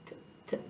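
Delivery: th sound with tongue between teeth, whispered; frontal lisp demo. Shown as a demonstration. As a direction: push the tongue out and blow th. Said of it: "like this".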